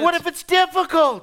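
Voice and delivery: fearful churchgoer. Acted.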